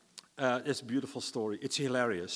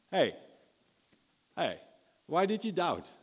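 light, teasing tone; 3 semitones higher than usual. Acted. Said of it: "with lightness like I just did".

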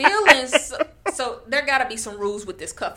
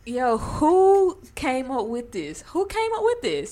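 incredulous shout; 3 semitones higher, slower than usual. Real, not acted. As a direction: react in total disbelief. Incredulous at the schedule.

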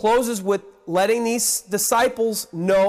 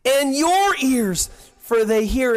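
higher, drawn-out excited emphasis; acted excitement, slow and raised; excited Jesus; 4 semitones higher than usual. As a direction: stretch it out with excitement, as Christ speaking. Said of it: "hear the excitement in His voice".

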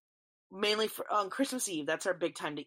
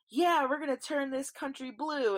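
confident Democrats; 7 semitones higher than usual. Retold or imitated. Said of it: "they're like".

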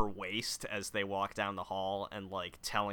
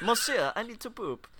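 a snooty French poodle asking to poop; French poodle accent; 9 semitones higher than usual. Retold or imitated. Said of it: "that poodle should not have an accent".

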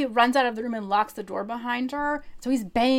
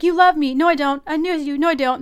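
mock bickering; 5 semitones higher, 5 dB louder, faster than usual. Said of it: "And he's like".

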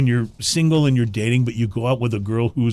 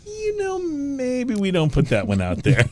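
lightly voiced wiser colleague, higher and softer; a hint of a gentle warning voice; mock cautious advice; 12 semitones higher, 3 dB quieter than usual. Host to guest, imitating a wiser friend's cautious advice. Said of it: "a person smarter than me said".

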